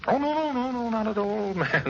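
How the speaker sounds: high, laughing it off; nervous laugh. Acted. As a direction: brush off the doubt with a laugh.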